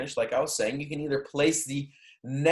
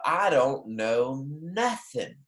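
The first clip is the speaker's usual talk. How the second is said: Southern drawl; much slower than usual. Retold or imitated. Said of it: "people say".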